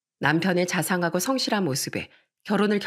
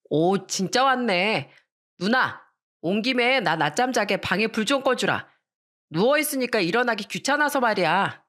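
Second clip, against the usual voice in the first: teasing brother; 4 semitones higher than usual. Acted. Brother teasing sister, sticking tongue out.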